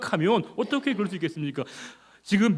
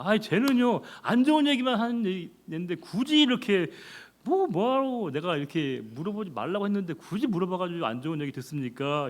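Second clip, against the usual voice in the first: higher, whiny grumble; complaining protest; 4 semitones higher than usual. Retold or imitated. King complaining to Jehoshaphat about the prophet, whiny. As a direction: complain that the prophet only brings bad news. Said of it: "따지는 겁니다".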